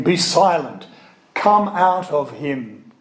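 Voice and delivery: measured, firm command, slowing at the end; rebuke. Acted. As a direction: give a restrained rebuke, drawing out the last words. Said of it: "Jesus rebuked them".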